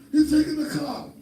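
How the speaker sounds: put-on high, loud childish wail; mock-tearful high cry; imitated crying grandkid. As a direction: mimic a child crying out in alarm. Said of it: "crying, calling me".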